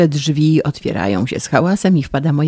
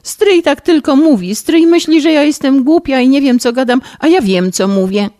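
higher, louder sobbing protest; jeszcze większy płacz; 7 semitones higher, 3 dB louder than usual. Acted. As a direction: wail harder, offended. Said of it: "jeszcze większy bek". (urażona, szlochając głośno i wysoko)

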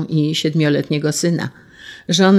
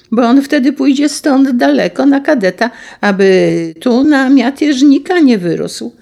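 building from clipped questions to a much louder, higher furious threat; boiling rage; 7 semitones higher, 5 dB louder than usual. A narrator's reading. Enraged general threatening the wife's little son, furious shout. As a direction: explode at her, threatening her son. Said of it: "Gniew w nim zakipiał".

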